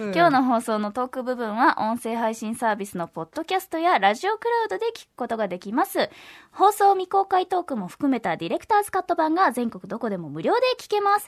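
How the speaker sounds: upbeat announcer with lifted phrases; polished promotional announcement; radio promo read. Acted. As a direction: pitch the news to listeners clearly. Reads programme notices.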